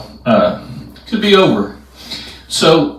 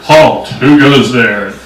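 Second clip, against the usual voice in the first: sentry's challenge; 4 dB louder, slower than usual. Retold or imitated. Acts the sentry challenging intruders.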